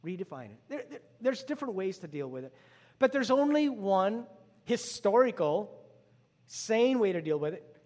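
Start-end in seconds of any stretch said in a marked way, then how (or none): 3.0-7.8 slow, loud and high, driving the point home; preaching at full volume; emphatic preaching. Real, not acted. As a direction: lean into it with full force. Preacher building to main point.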